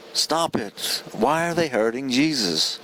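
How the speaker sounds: lightly voiced upset child pleading sincerely; sincere child's plea. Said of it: "This sincere reaction of, like, a young child".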